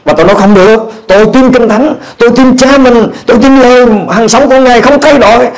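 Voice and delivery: ordinary talk, nothing marked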